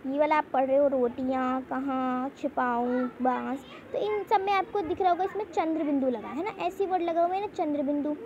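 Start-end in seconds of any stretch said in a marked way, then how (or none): 0.9-3.6 रोटियां कहाँ छिपाऊं, बांस slowly, vowels sounded through nose and mouth together; anunasik pronunciation. Shown as a demonstration. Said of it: "नाक और मुंह दोनों से". (रोटियां, कहाँ, छिपाऊं, बांस को नाक और मुंह से धीरे बोलना)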